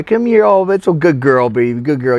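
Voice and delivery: high, loud cooing to a dog; dad's doggy talk. Retold or imitated. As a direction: imitate an owner sweet-talking his pet. Dad sweet-talking his dog, retold.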